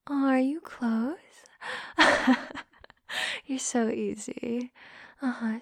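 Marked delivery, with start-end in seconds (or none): 0.1-1.2 slow, drawn-out teasing question; slow voiced question. Teasing her partner, slowly asking aloud.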